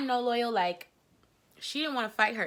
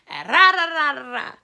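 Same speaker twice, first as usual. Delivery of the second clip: mock ranting; 6 semitones higher, 10 dB louder than usual. Mocking the girl's ranting.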